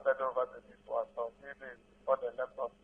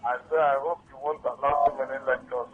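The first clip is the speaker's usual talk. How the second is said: repeating it louder; to someone hard of hearing; 6 dB louder than usual. Real, not acted. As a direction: say it again, louder. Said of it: "Can you talk louder, please?".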